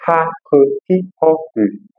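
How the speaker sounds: slow, throaty French R; ha, re said slowly with a throaty French R. Shown as a demonstration. Teacher drills the French R sound slowly. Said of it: "aquele R arrastado".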